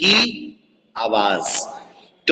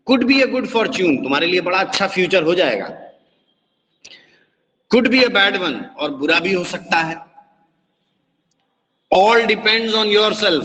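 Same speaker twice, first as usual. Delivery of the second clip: a hint of fortune teller Mrs Fitzgerald; 4 semitones higher than usual. Reads Mrs Fitzgerald's lines.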